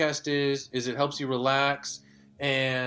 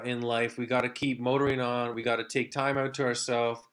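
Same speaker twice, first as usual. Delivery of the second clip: ordinary talk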